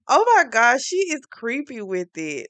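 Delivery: a high, loud "oh my gosh" that fades; shocked aside. Real, not acted. Vlogger reacting to the creepy assistant, genuinely aghast. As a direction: react like you can't believe it. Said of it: "I was like".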